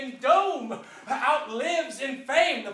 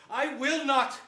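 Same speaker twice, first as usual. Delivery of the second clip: rising to a loud, higher protest; forceful refusal; 5 semitones higher, 8 dB louder than usual. Acted. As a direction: throw the refusal back at them, louder on each phrase. Richard refuses the crown loudly.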